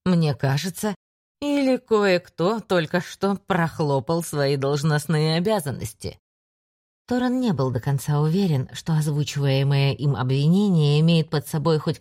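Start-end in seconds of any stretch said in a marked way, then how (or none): 0.0-6.2 mocking. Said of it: "насмешливо кивнул Андеру".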